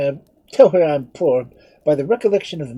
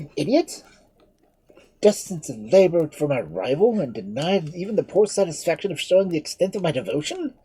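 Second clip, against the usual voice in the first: high, loud, raging defiance; a prisoner raving against his fate; maddened outburst; 8 semitones higher, 7 dB louder than usual. Acted. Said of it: "driven to madness by the thought".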